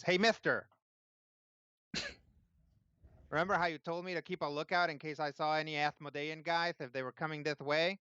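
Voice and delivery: put-on high, eager kid voice; tiefling boy. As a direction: play the excited little boy.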